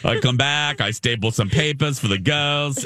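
affected put-on accent for a quote; Moira Rose. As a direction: retell it in a mock theatrical accent. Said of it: "That was Moria Rose accent there".

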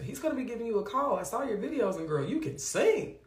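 high Southern pastor gushing down the phone; playful Southern voice, stretched at the end; Southern man impression. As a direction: imitate a Southern pastor paying a compliment. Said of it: "that's my Southern white man voice".

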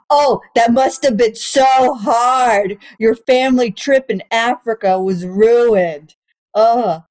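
slow, drawn-out fake pity; sarcastic, dripping with fake sympathy; mock sympathy. Comic mocking her girlfriend's safari gripe with slow fake pity.

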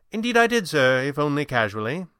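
a hint of a formal servant's reply; polite butler. Butler answering his employer about Thompson, lightly voiced.

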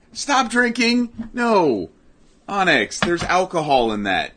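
drawn-out, high cry to a pet; high-pitched scolding. Real, not acted. Scolds cat drinking alcohol.

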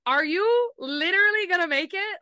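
high, loud, stressed-out question; mock panic. To the book scene, a high, loud, panicked question. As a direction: cry it out in pretend alarm. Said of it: "And I'm like".

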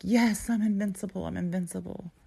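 mock victory cry, lifted in pitch; retold triumph. Runner recalling cheering herself on the pool stairs, triumphant.

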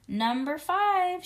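loud, drawn-out announcement. A narrator's reading. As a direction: call it out high and loud, stretching the words. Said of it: "she said very loud".

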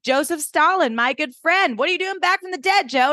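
mock-gasp at Stalin; sarcastic Lorelai. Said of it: "And Lorelai's like".

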